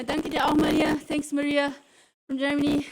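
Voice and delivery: excited thanks. Real, not acted. Thanking German viewer.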